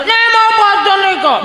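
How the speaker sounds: put-on squeaky sulky child voice; whiny child. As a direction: whine the refusal like a spoilt kid. Spoilt child refusing food.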